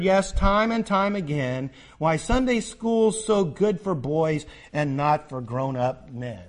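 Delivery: measured, singsong poem reading; poem recitation. Acted. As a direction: recite it line by line with deliberate rhythm. Reads a poem aloud.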